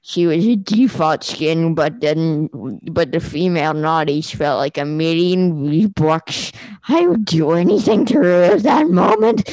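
a hint of a nerdy Discord mod; neckbeard voice. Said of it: "the most neckbeard voice I can do".

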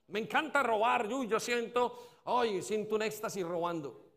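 lifted, hammed-up thrill of a sinner; mock delight. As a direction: play someone relishing a guilty pleasure. Imita a quien disfruta robar. (deleite fingido y exagerado)

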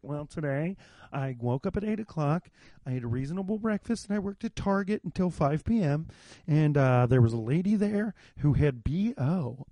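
a light mock of a dull, reasonable podcaster; boring podcaster. Mocking the dull podcast nobody wants, lightly voiced. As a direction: lightly parody a boring everyman host. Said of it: "nobody wants to listen to the podcast that's like".

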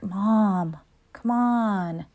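a hushed, embarrassed plea; whined whisper. Retold or imitated. Son begging his teasing mom to drop it, in a whisper.

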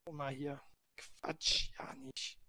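breathy aside; whisper. Real, not acted. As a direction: whisper it under your breath. Embarrassed about thinning hair.

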